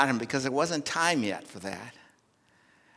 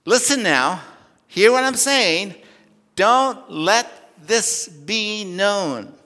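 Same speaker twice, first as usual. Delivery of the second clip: louder, higher and slow, like a stern command; harsh, vehement warning; 4 semitones higher, 6 dB louder, slower than usual. Acted. Preacher voicing Jesus warning healed blind men, harsh vehement warning. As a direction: bear down on every word as Jesus warning them. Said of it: "Jesus says to them harshly, vehemently, as if to say".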